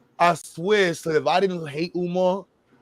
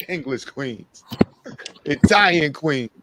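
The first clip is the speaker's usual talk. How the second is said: imitating Umar. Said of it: "he went through a whole list".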